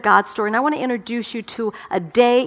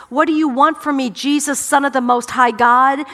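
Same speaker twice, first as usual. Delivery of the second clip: mock shout; 3 semitones higher, 4 dB louder than usual. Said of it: "he shouted at the top of his voice".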